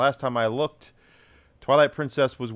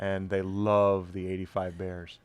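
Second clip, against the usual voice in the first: put-on Chicago accent; 3 semitones lower, slower than usual. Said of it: "this accent".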